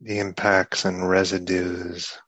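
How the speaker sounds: soft, unhurried meditation guidance; guided meditation. Real, not acted. Teacher guiding listeners to take stock of the heart, guided meditation. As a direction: ease them inward softly, leaving long pauses.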